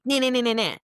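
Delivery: high, mocking sing-song "nah, nah, nah"; dismissive nah nah. Mimicking herself waving off a harsh boundary, high mock chant. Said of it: "And I'm like".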